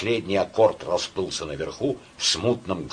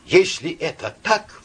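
high, loud outburst of delight; rapturous; 8 semitones higher, 4 dB louder than usual. A narrator's reading. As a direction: blurt it out in rapture. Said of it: "вдруг восторженно заговорил он". (восторженно, взахлёб)

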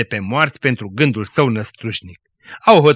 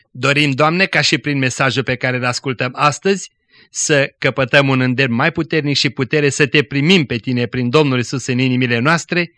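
lightly voiced earnest prayer; preacher closing the broadcast with a prayer, understated and earnest. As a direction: pray it steadily to the Lord. Closing prayer after the sermon.

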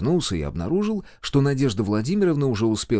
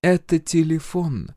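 slow, high-pitched, composed; calm reply; 8 semitones higher, slower than usual. A narrator's reading. Healer calmly shows the major her phone, composed. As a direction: answer unruffled, taking your time. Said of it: "спокойно ответила женщина".

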